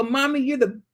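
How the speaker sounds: a hint of little-boy voice; imitating son. Mom starts quoting son's compliment, lightly imitating. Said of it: "He'll go".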